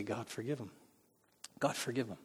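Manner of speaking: soft prayer. Acted. Quoting a prayer of grace.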